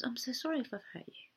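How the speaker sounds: soft, quick apology; hushed, hurried sorry; apologetic. Acted. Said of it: "So apologise".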